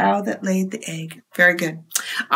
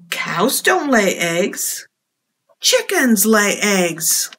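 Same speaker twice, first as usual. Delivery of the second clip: lively picture-book read-aloud; reading to children. A narrator's reading. Librarian reading a storybook to children, lively. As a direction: tell it to the little ones with expression.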